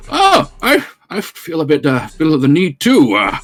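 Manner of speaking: lightly voiced old gent; elderly man. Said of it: "the elderly man here goes".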